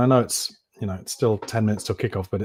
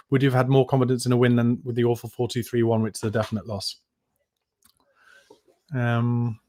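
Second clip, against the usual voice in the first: talking around a lollipop; sucking a lollipop. Real, not acted. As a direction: lollipop in the mouth while speaking. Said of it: "A lollipop on microphone is not the most enjoyable audio".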